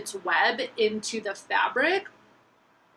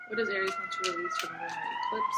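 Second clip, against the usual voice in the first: much higher, sing-song question; high squeaky voice; 4 dB quieter than usual. Shown as a demonstration. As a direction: chirp it very high. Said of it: "repeats question in new voice".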